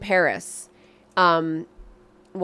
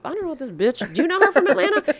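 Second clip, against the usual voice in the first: incredulous friends; 6 semitones higher, faster than usual. Retold or imitated. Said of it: "And they're just like".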